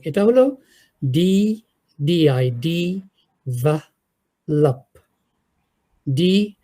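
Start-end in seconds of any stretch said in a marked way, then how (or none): 1.1-5.0 "ভা লাপ" with a broad a, as Bangladeshi teachers say it; mock the common "ডেভালাপ" mispronunciation; "লাপ" said with a flat a, the wrong way; wrong pronunciation demo. Shown as a demonstration. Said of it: "এই প্রনাউন্সিয়েশনটা বাংলাদেশের সব শিক্ষকরাই ভুল করে".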